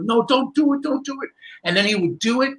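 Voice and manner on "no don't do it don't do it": pleading audience. Retold or imitated. Audience dreads the knife trick.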